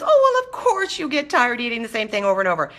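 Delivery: high, gushing put-on sympathy; mock sympathy. Host mimicking everybody excusing boredom with food, mock-sympathetic.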